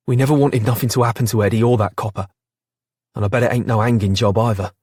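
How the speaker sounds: fast, pressed protest; urgent pleading. Acted. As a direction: rush it out desperately.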